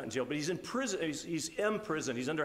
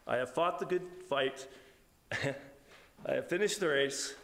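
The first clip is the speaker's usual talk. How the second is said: getting emotional. Real, not acted. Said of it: "I'm getting emotional".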